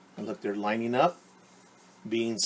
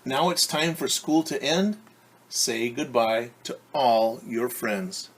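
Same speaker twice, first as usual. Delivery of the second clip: slow, lilting rhyme read aloud; reading to children; slower than usual. Acted. A teacher reads the picture book rhyme to preschoolers, lilting. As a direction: read it gently, like a closing page.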